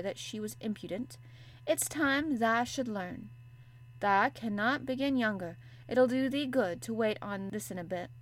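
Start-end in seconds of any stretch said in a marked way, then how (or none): 1.7-8.1 a touch of a broad Yorkshire maid lecturing; Yorkshire maid, unhurried; lightly voiced Yorkshire maid. Martha's Yorkshire voice.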